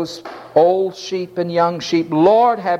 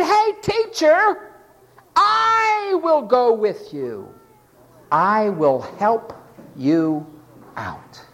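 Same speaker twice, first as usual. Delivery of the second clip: higher, slow, mocking voice of a cocky volunteer; presumptuous disciple; 5 semitones higher, slower than usual. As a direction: ham up his condescending offer. Quoting the presumptuous man.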